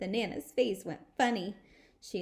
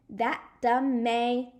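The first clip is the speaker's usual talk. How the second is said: slow, louder grumble to herself; grumpy; 3 semitones higher, 6 dB louder, much slower than usual. Acted. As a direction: grump it out under her nose. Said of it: "I grumped to just myself".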